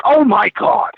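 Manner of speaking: retold shock. Retold partner's shocked reaction.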